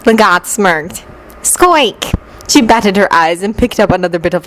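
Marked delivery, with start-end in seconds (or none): 1.4-2.1 high-pitched falling squeak; mouse squeak. A narrator's reading. Rogue playing a mouse, answers.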